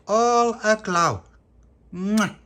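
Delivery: high, loud and slow gush ending in a kiss. Acted. Pappy greeting Pauline at the door, loud high gushing coo. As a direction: coo it over her like a doting fan.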